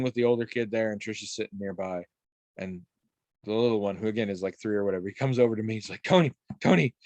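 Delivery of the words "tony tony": put-on excited kid. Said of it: "real excited".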